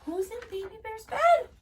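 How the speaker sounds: high, slow sing-song little bear; sing-song squeak. A narrator's reading. Baby Bear points at Goldilocks, high and sing-song. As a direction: draw it out like a startled cub. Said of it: "squeaked Baby Bear".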